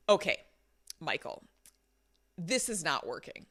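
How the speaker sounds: measured, pausing between phrases; quite direct. Retold or imitated. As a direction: re-enact a controlled, firm confrontation. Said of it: "I was quite direct".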